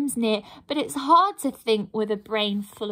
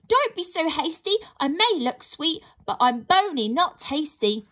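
lightly higher, hurried plea; pleading pixie; 5 semitones higher than usual. Acted. Pixie pleads with the troll, lightly higher and quick. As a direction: talk your way out of being eaten.

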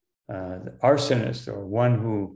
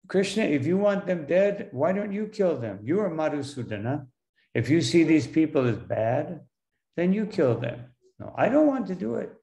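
higher-pitched, mildly protesting quote; challenging; 4 semitones higher than usual. Acted. Arjuna pushes the killing back onto Krishna, challenging. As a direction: lightly act out arguing back at a friend. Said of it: "he's challenging Krishna".

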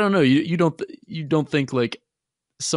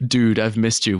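Jeff; 4 dB louder than usual. Acted. Fan mimics a friend greeting a returning commenter, incredulous. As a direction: play a surprised online buddy, pitch climbing. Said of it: "that was my Jeff impression".

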